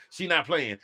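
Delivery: retold Mama. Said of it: "Mama looked out there and said".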